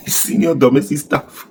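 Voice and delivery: slow, laughing mockery of the title; mocking laugh. Commentator laughing at the senator's title, slow mocking drawl. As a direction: draw it out while laughing at him.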